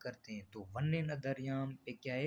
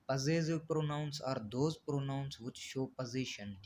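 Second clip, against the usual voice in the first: very slow, word-by-word reading of the definition; slow dictation; much slower than usual. Shown as a demonstration. Teacher dictating a definition to the class, very slow and even. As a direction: spell the definition out slowly for students to copy.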